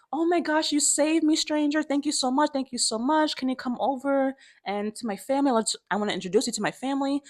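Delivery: high, gushing imitation of a boy; grateful little boy. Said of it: "And the son is like".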